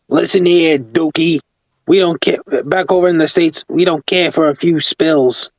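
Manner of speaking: a hint of a brash engine character; Stanley. Picturing Stanley from the States, lightly voiced character. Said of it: "I picture Stanley from Minnesota being like".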